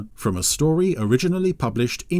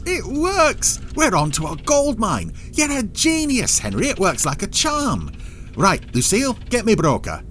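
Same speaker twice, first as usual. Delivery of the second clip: gloating; 11 semitones higher than usual. Acted. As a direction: crow over the win. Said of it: "gloated over his success".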